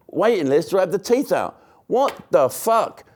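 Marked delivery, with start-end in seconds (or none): 1.9-3.0 slow, incredulous what the fuck; stunned outrage at a year's wait; disbelief. Real, not acted. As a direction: drag it out in disbelief. Outraged at year-long waiting list.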